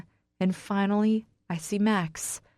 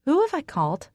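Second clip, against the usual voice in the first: tense thick throat; 8 semitones higher, faster than usual. A narrator's reading. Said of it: "throat thick with tension".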